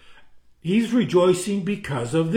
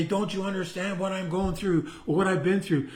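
mock tantrum; 4 semitones higher than usual. Preacher imitates an upset listener, mild mock tantrum. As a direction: lightly voice an indignant complainer. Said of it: "throw a temper tantrum and say".

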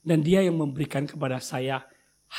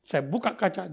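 ordinary talk

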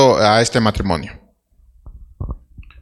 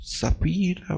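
"Zafira" much higher and much softer, falling; pleading; 9 semitones higher, 7 dB quieter, much slower than usual. Retold or imitated. Peter softly pleading with Sapphira, "Zafira" higher and quieter. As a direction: breathe "Zafira" in a hushed plea. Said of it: "y así".

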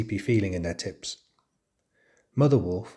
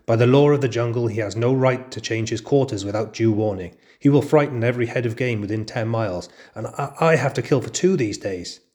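angry; 2 semitones higher, 5 dB louder than usual. Acted. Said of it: "Father Wolf began angrily".

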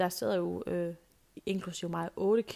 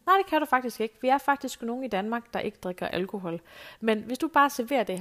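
a touch of irritation, raised and louder at the start; putting the pushy waiter in his place, firmly; irritated retort; 2 semitones higher, 4 dB louder than usual. Retold or imitated. To the nosy waiter, refusing his question, mildly irritated. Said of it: "at jeg bliver irriteret".

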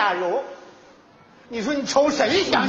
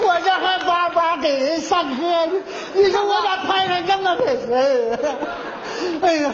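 comic whining; 4 semitones higher than usual. Acted. Doctor despairs over his wife.

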